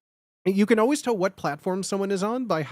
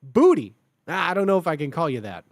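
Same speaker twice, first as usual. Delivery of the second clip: reluctant reaction; 2 semitones lower, 4 dB louder than usual. Retold or imitated. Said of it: "And then they go".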